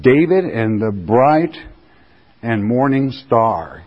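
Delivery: solemn, slowing Bible reading; scripture reading. Acted. Preacher reading Jesus' words to the churches, solemn. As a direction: proclaim it, slowing at the end.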